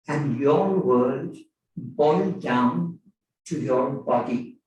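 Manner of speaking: measured recital with lilting rises and phrase-by-phrase pauses; poetry reading. Acted. Poet reading a translated poem to an audience, measured recital. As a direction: read the poem out, letting each phrase stand.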